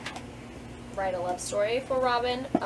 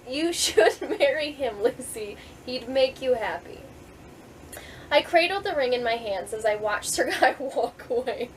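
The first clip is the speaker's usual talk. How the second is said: reading through giggles. Real, not acted. Author reads the ending of her book, laughing.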